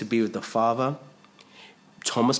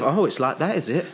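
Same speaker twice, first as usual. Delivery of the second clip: defensive; 5 semitones higher than usual. Retold or imitated. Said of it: "Start getting a bit defensive".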